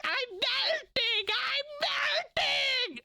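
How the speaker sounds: high, slow wailing Wicked Witch cry; hammed-up witch shriek; melting witch. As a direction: wail it like the witch dissolving. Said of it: "the witch gets wet and she's like".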